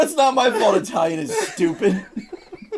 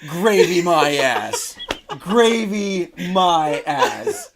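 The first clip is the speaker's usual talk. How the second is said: scoffing; 3 dB louder, much slower than usual. Acted.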